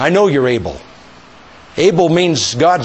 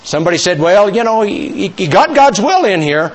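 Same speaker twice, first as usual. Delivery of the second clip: normal talking voice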